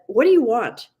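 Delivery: mild irritated pharmacist, busy on phone; perturbed snap. Acted. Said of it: "in a very perturbed voice".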